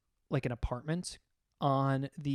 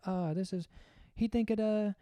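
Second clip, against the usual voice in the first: halting, higher-pitched mock Jamaican accent; imitated Jamaican accent; 6 semitones higher than usual. Jamaican co-worker tries translating his friend's words, imitated thick accent. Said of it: "had a pretty big accent as well".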